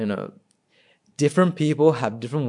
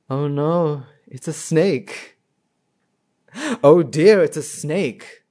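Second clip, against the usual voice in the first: mock dismay; 2 semitones higher, 3 dB louder, slower than usual. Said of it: "What are they feeling now?".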